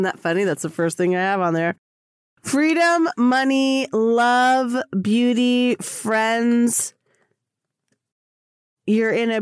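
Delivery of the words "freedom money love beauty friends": excited. Real, not acted. Reading list with delight.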